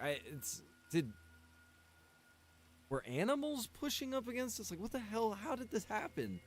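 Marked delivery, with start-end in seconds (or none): 2.9-6.4 high, baffled replay of his own reaction; stunned disbelief. Retold or imitated. Streamer retelling finding his fence blown over, high bewildered disbelief. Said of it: "I was like".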